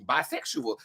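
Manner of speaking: ordinary talk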